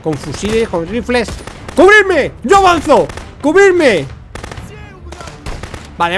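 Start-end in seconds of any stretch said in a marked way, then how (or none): 1.8-4.0 loud, high squad call; shouted battle orders. Real, not acted. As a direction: shout commands over the firefight. (órdenes a gritos)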